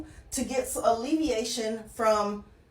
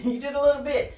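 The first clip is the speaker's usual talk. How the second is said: quick repeat through a chuckle; amused, laughing; 3 semitones higher, 3 dB louder, faster than usual. Real, not acted. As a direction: chuckle while conceding the small win. Laughs repeating the teasing praise.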